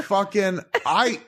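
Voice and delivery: high, strained yelled rant; mock furious rant. Husband imitating himself firing his wife, yelling. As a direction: rage it out half in jest. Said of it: "And I was like".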